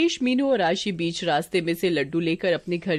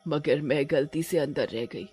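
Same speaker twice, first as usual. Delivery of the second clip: a touch of sorrow, subdued telling; sorrowful witch; 2 semitones lower than usual. Acted. Witch tells the couple her life story, mildly sorrowful. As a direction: recount the past with understated grief. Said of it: "चुड़ैल बड़े ही दुख के साथ अपनी कहानी सुनाती है".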